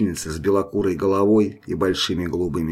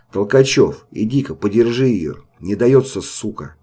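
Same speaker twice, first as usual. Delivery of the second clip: calling out; 4 dB louder than usual. Acted. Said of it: "позвал рыжий из сеней".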